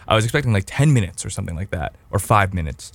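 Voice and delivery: talking through a mouthful of gum; chewing gum. Real, not acted. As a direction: chew gum while you talk. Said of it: "I'm chewing gum".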